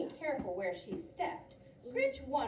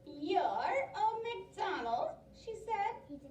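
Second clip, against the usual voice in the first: witch voice; 5 semitones higher than usual. Acted. Witch addresses farmer.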